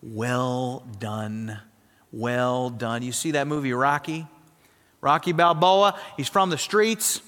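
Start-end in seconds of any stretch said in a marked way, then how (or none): 0.0-3.0 low, soft, slow words of approval; tender praise. Retold or imitated. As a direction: say it like a proud loving father. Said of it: "you hear his voice and he says".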